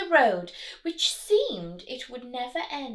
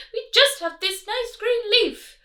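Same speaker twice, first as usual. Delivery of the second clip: small, higher ant voice; ants' voice; 12 semitones higher, 9 dB louder than usual. Acted. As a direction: squeak it out timidly like tiny ants. Ants answer the rat.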